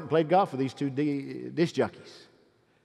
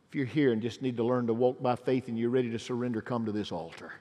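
lowered voice, pleading with God; earnest altar prayer; 7 semitones lower than usual. Real, not acted. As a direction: lead the congregation into heartfelt prayer. Altar call turning into prayer.

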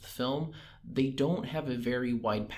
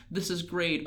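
bright, giddy, higher pitch; giddy excitement; 6 semitones higher than usual. Retold or imitated. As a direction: gush it out like a thrilled girl. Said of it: "wishy-washy between".

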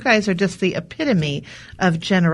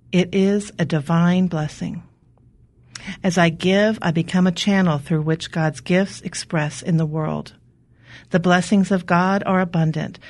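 soothing reading. Acted. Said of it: "Very soothing".

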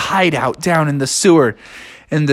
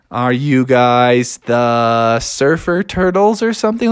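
hesitant guess; 3 semitones lower than usual. Acted. Froggy hesitantly guesses who they are.

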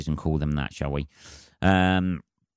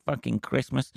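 mock matey greeting; 8 semitones higher than usual. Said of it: "conversation of going".

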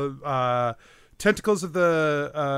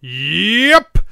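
loud, drawn-out shout back; called-back reply; 3 semitones higher, 8 dB louder than usual. Acted. Lookout answers Jacques from the crow's nest, calling. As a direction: holler the answer from a distance. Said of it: "you just hear back".

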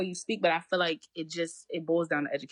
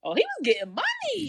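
teasing; 9 semitones higher, 4 dB louder than usual. Pretend. Teasing friend about his dad.

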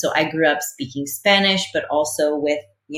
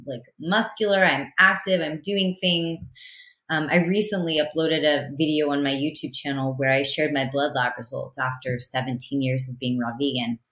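ordinary talk, nothing marked

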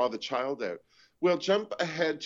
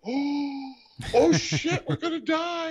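much higher, panicked yelp; hammed-up horror-movie panic, much higher; mock terror; 13 semitones higher, 5 dB louder, slower than usual. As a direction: squeal it like you're sure you'll die. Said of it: "the look on my face was like".

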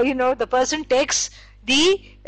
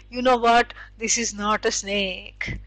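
gentle, quiet smiling reassurance, trailing softer; smilingly; 4 semitones lower, 4 dB quieter than usual. Retold or imitated. Teacher gently tells the frightened person, smiling. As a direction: say it with a soft smile. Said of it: "you'll say this smilingly".

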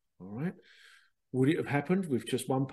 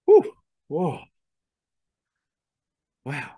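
awed exclamation; 10 dB louder, slower than usual. Retold or imitated. Coming out of the trance, amazed and loud. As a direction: blow out an astonished wow. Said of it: "you're like".

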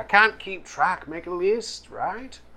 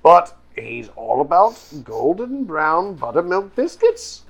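high voice; 5 semitones higher, 5 dB louder than usual. Acted. Mocking a picky NPC's son.

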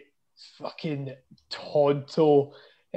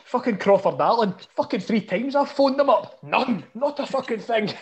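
mock furious rant, higher; imitating raging manager; 6 semitones higher than usual. Imitating the manager's phone complaint, hammed-up rage. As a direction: play the ranting manager. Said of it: "what is he so raging about".

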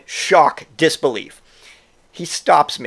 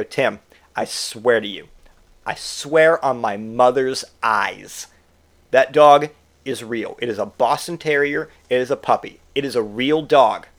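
solemn swearing; 3 semitones lower than usual. Retold or imitated. Swearing to a drunk friend the puppy is real, solemn. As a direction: spell it out in earnest.

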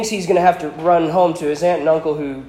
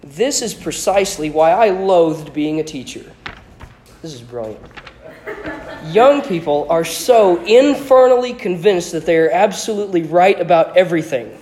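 even louder; 3 semitones higher, 5 dB louder than usual. A narrator's reading. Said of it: "even more loudly than Harry".

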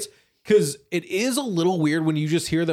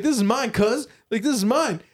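bragging rapper; 5 semitones higher than usual. Retold or imitated.

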